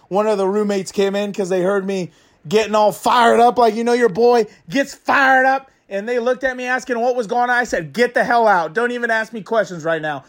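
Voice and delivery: a hint of a hyped fan bit; Dan and Dago fan persona. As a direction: rant as a disgruntled superfan persona. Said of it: "Your boy, your lad, Dan and Dago".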